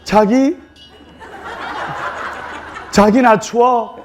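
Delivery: sweet Seoul-dialect wife, drawn out with a laugh; coy Seoul speech. Retold or imitated. Bride teasing her husband about the cold, cute Seoul accent. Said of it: "서울말로".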